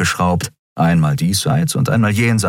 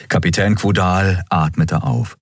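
plain reading voice

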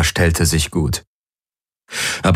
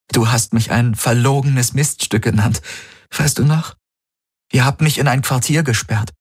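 higher, earnest female voice; heroine's plea; 7 semitones higher than usual. A narrator's reading. Kirai reminds amnesiac Galen of their meeting, higher, earnest. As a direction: reach him through shared memories.

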